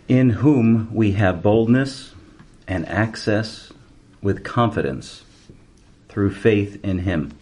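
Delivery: slow, solemn reading; scripture reading. Acted. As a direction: read it out slowly, with weight. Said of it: "verse twelve says".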